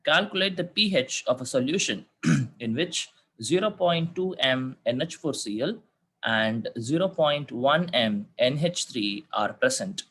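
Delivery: slow, careful dictation for students to copy; slow school dictation. Shown as a demonstration. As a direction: dictate each figure slowly and clearly. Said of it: "Okay, I repeat the question".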